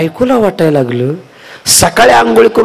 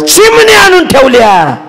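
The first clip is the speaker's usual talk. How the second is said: wailing wife; 11 semitones higher, 4 dB louder than usual. Acted. Wife complains to mother-in-law about the mirror, high and loud. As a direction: drag the words out in a high complaining cry.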